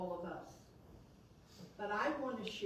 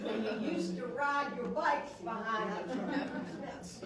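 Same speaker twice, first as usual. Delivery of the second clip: playful finish; 5 dB louder than usual. Retold or imitated. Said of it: "let me see if I can finish that for you".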